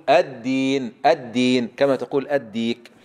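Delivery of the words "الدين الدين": الدين with a firm voiced doubled d; emphatic correction, الدين with full د; corrected voiced dal. Shown as a demonstration. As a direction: model الدين slowly and clearly, d not t. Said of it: "لا، قل".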